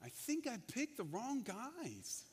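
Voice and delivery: exasperated. Retold or imitated. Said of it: "rolled his eyes and was like".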